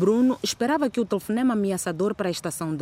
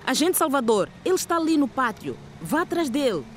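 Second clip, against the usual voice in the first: higher, curt command to an officer; rude order; 6 semitones higher than usual. Acted. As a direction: snap the order rudely. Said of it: "ordenou ... com um ar rude".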